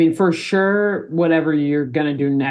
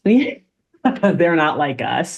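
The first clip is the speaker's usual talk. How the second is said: laughing; much slower than usual. Real, not acted. Laughing repeat of a joke.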